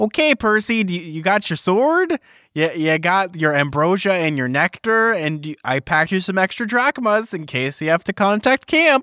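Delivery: put-on, motherly Midwestern accent. Speaker voices a woman helping Percy get ready to help demigods, put-on Midwestern accent. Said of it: "I don't know why I'm giving her like a Midwestern accent".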